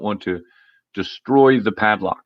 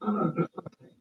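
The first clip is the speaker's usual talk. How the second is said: dismissive retort; 10 semitones higher, 8 dB quieter, faster than usual. Retold or imitated. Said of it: "And somebody said".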